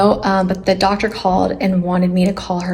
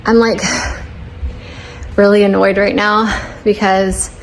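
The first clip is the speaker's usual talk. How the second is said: breathless after the stairs; out of breath. Real, not acted. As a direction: talk while catching your breath. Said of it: "very much out of breath".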